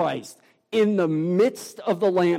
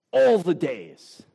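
"All" punched, with "the days" slower; slow, emphatic "All the days"; stress on all; slower than usual. Shown as a demonstration. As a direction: lean hard on "All". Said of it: "Jesus emphasizes it even more".

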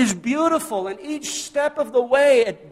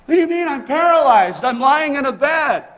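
upset protest; 4 semitones higher, 4 dB louder than usual. Retold or imitated. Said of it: "We'd get upset".

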